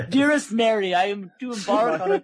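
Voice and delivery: put-on old-timey formal letter voice; colonial letter writer. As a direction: read it like a wig-wearing gentleman.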